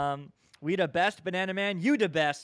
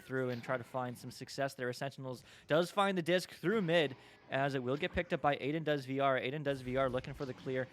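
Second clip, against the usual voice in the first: esports caster; 3 semitones lower than usual. Acted. Live play-by-play of the match.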